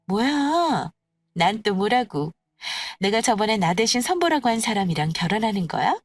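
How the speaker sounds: lightly voiced sneering rival; scoffing. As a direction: dismiss the news with disdain. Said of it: "콧방귀 끼며 비웃더라고요".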